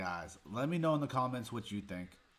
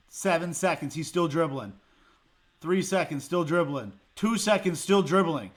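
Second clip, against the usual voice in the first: each still dribbling louder than the one before; growing disbelief; 5 semitones higher, 9 dB louder than usual. Real, not acted. Fan counting down the seconds, rising disbelief. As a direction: build the outrage with every count.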